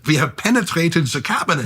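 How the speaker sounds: light mock German accent, Bond-villain menace; a hint of a German accent, playing the supervillain; Klaus Schwab German accent. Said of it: "I'm gonna say it in his German accent".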